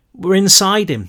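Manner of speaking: alarmed warning. A narrator's reading. Brick warning.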